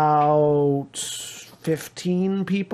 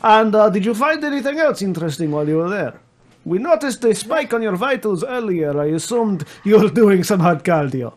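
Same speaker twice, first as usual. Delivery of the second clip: Comrade voice; 4 semitones higher, 3 dB louder than usual. Acted. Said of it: "you listen like".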